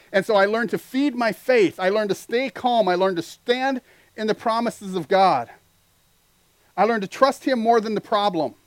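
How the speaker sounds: rising testimony to the congregation; preaching at full force. Real, not acted. Preaching climax, raised voice.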